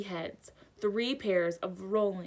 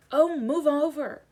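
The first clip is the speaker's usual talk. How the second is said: louder, higher, slow snarl; 7 semitones higher, 7 dB louder than usual. A narrator's reading. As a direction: shove him aside with words. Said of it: "Hermione snarled".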